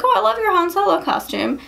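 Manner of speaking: high-pitched imitation of a gushing fan; gushing compliment. Party guest praising Brandon's costume, gushing high.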